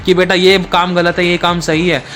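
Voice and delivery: a son accusing his mother from the gallows; scolding blame. Acted. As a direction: pile the blame on her line after line. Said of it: "डांटते हुए, दोष लगाते हुए कहा".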